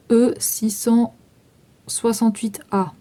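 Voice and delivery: slow, spelled-out dictation of the code; slow dictation of the product number. Shown as a demonstration. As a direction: read the code out slowly for them to note. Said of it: "Enfin, vous écrivez".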